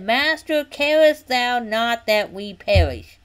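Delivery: mild indignation, drawn out word by word; quoting an angry complaint; accusing. Acted. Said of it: "they were mad at him".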